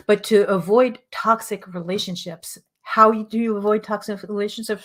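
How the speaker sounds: hoarse, strained voice; losing voice. Real, not acted. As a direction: push through a failing voice. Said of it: "I'm losing my voice".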